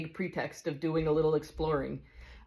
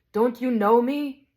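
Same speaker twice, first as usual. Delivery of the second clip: slow, loud and high call of recognition; shouted greeting; 7 semitones higher, 6 dB louder, slower than usual. Acted. Bright spirit shouts to the big ghost in joyful recognition. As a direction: call out joyfully to an old acquaintance. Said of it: "he shouted to the ghost".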